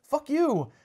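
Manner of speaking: high, loud outraged shout; angry protest. Retold or imitated. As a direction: yell it at the intruder. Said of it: "They're like".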